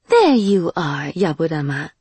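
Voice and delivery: lightly voiced cool, proud lady; haughty noblewoman voice. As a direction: greet him with cool superiority.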